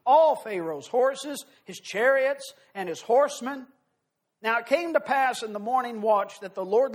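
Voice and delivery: measured, solemn Bible reading to the congregation; scripture reading. Acted. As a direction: read the passage with weight, like from the pulpit. Preacher reads long scripture passage.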